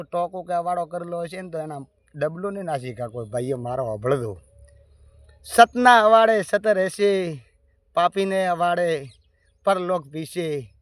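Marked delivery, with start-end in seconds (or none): 5.4-10.7 proclaiming. Acted. Preaching climax, proclaimed.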